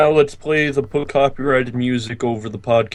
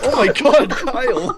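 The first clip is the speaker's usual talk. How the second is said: high, loud cry through laughter; real laughing disbelief; laughing exclamation; 9 semitones higher, 4 dB louder than usual. Real, not acted. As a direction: crack up while calling his name. Cracking up at Kyle's laughing fit.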